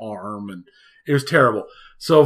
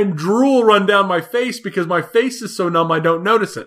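laughing whine; 7 semitones higher than usual. Retold or imitated. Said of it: "It's like".

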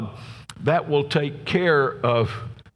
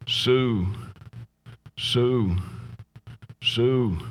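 drawn-out name with long pauses, no force; rocking asylum patient; much slower than usual. Retold or imitated. Jilted man rocking in the asylum, saying her name over and over, listless repetition. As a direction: imitate a man lost in a slow, repetitive loop. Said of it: "rocking back and forth, and he's saying".

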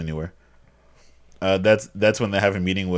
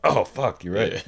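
surprised realization; 3 semitones higher, slower than usual. Real, not acted. Realizing mistake.

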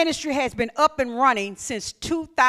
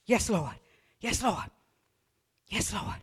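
low, soft surrender; humble soft reply; 5 semitones lower, 12 dB quieter than usual. Acted. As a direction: answer the Lord meekly, hushed. Answering God humbly.

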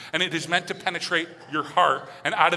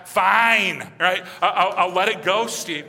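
grudging let it go; 2 semitones higher, 5 dB louder, slower than usual. Retold or imitated. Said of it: "begrudge game".

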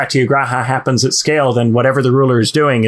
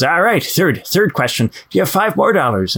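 dopey cartoon bellow; 5 semitones higher than usual. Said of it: "and then the troll says".

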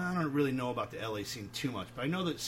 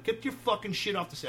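mock angry shout; 7 semitones higher than usual. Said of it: "And I'm, like, screaming at him".

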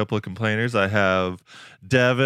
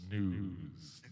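echo; 5 semitones lower, 14 dB quieter than usual. Acted. Echo effect on segment title.

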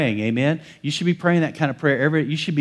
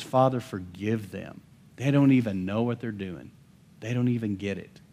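a touch softer and slower, tender; gentle slow quote; 4 dB quieter than usual. Retold or imitated. Preacher voicing Jesus forgiving from the cross, gently slowed. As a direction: let the words of mercy settle gently. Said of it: "And yet on the cross, he says".

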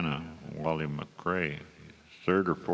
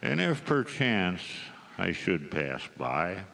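cowboy poetry. Acted. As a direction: deliver each rhyme with a storyteller's pause. Recites the requested cowboy poem.

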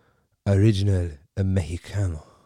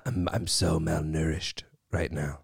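whispered, faint and feeble; weak whisper; 4 dB quieter than usual. Acted. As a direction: sound like you might collapse. Whining about being malnourished.

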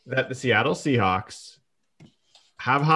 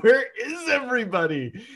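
imitating friend; 12 semitones higher than usual. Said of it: "He was like".

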